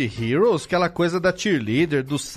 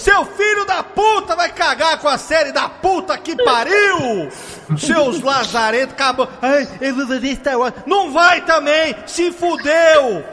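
loud furious tirade; angry rant; 7 semitones higher, 4 dB louder, slower than usual. Acted. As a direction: shout it in outrage. Ranting rage at show creators. (desabafo furioso aos gritos)

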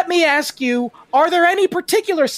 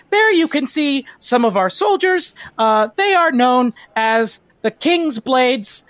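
casual city guide; 3 semitones higher than usual. Acted. Guide shows visitors the city's soldiers, casually explaining in a lifted voice. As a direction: explain the sights casually, as a proud local guide. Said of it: "just casually explaining".

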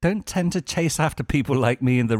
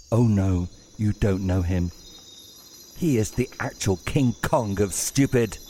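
put-on earnest child's voice. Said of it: "She lowers her voice and is sounding quite earnest".

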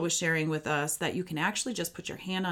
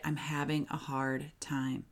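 softly and slowly, hand on heart; quiet, slowed-down grounding phrase; soft, slow self-talk; 2 semitones lower, 6 dB quieter than usual. Shown as a demonstration. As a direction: say it to yourself to calm down. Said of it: "Hand on your heart and just say it".

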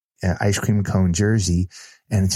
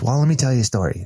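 quick, higher, eager lead-in; lighting up; 4 semitones higher, faster than usual. Retold or imitated. Daughter about to tell a story about dad, lighting up. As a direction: imitate someone lighting up to tell a tale. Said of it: "she's just lighting up".

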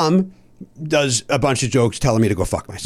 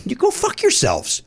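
mock shout. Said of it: "I said".

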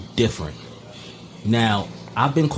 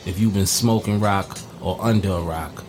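grand show announcer intro; ringmaster; 3 semitones lower than usual. Acted.

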